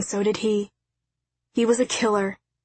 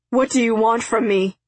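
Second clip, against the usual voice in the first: miserable; 3 dB louder than usual. A narrator's reading. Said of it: "he said miserably".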